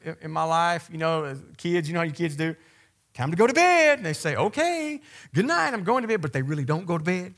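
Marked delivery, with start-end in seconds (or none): 3.1-4.0 high, loud mock parent order; dad sending the kids to bed, loud mock order; stern parent. 4.3-6.2 high, sing-song fake-innocent kid; child fibbing to his parent, high mock innocence. Kid voiced feigning obedience.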